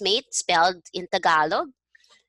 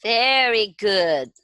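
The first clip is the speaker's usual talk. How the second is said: excited cheer rising to a high pitch; drawn-out, delighted congratulations; impressed praise; 4 semitones higher, 4 dB louder, slower than usual. Real, not acted. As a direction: praise the student with mounting enthusiasm. Teacher praising student's reading.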